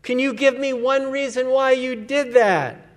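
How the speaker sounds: half-gasped mock exasperation at the son; a hint of a winded, exasperated dad. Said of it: "I gasped in exasperation".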